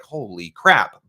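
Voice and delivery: slow, loud exasperated exclamation; mock exasperation. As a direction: drag it out like you're fed up with seeing it again. Seeing the same demo everywhere.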